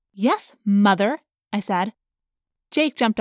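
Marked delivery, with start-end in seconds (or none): 0.1-1.2 slow, dry sarcastic jab. Acted. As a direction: drag it out mockingly. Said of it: "Don't give me your sarcasm".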